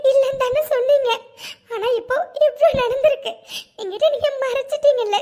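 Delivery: teary. Acted. Devi to Rocky, hurt he hid things, tearful. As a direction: speak through rising tears. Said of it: "சின்ன குழந்தை மாதிரி இப்படி அழுதுட்டு இருக்கா".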